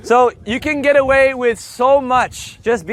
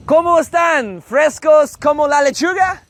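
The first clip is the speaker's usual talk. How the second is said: playful, higher-pitched Spanish greeting; pitched-up, friendly banter; jokey greeting; 4 semitones higher than usual. Acted. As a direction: open breezily with a cheeky joke.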